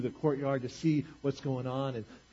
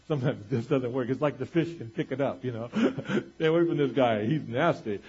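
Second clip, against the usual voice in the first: amused, laughing through the joke; 5 dB louder than usual. Real, not acted. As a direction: chuckle as you tell it. Joking about fishing in bad mood.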